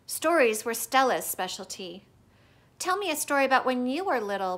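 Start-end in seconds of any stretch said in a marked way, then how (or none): 2.8-4.6 quick, eager begging; pleading. Acted. Young Ruby begs Ivan for a story, quick and eager. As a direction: rush it out hopefully. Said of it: "Ruby pleads".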